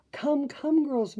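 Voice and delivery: high, eager call to the others; excited cry. A narrator's reading. Merryweather hurrying her sisters, high excited call. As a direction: hurry the fairies along, bright and high. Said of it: "Merryweather cried".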